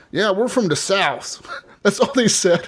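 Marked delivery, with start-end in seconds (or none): 0.1-1.5 slow, higher Southern redneck impression; redneck accent. Redneck teammates say where they're from, imitated Southern accent. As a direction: imitate a redneck, drawing it out slowly. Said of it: "most redneck motherfuckers".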